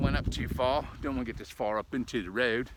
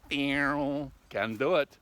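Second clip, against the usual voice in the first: slow emphatic; 3 semitones higher, 4 dB louder, much slower than usual. Real, not acted.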